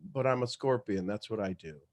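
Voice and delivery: low, soft matter-of-fact scorpion; the scorpion calmly explains its nature, low and soft; cold scorpion. Acted. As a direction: shrug it off, low and quiet.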